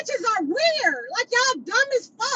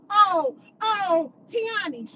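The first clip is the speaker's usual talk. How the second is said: lightly voiced mock of the other woman; a slight sneering take on her saying Tiani; mocking imitation; 2 semitones lower, much slower than usual. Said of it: "talking about some".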